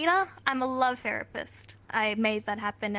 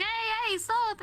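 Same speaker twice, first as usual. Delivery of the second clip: high, pitched-up "hey, hey, stop"; mock-scold in her higher voice; mimicking B; 9 semitones higher, slower than usual. B scolding the helper, pitched higher. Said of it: "And she's like".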